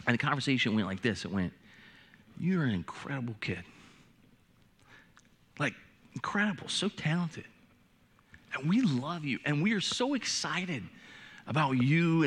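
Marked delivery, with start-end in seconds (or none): 2.4-12.2 gentle. Retold or imitated. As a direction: speak it like you're sitting beside her. Parents gently affirm their daughter.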